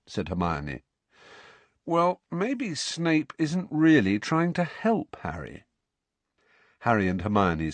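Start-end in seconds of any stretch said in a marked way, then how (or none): 1.8-5.6 ominous. A narrator's reading. Ron hints darkly.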